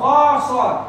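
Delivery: "خا صاد" loud and heavy, with a full mouth; full-mouth letters. Shown as a demonstration. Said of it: "the seven full mouth letters".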